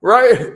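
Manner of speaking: loud mock whimper of a hurt dog; imitating dog whimper. Telling the farmer story, mimics the dog's loud whimper. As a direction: whine like the dog lying on a nail. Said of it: "he just hears the dog whimpering".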